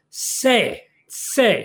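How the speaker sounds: "say" as a tentatively shown Hebrew word; Hebrew pronunciation. Shown as a demonstration. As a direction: sound out "say" on its own, then repeat it firmly. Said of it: "forgive me if I don't pronounce this right".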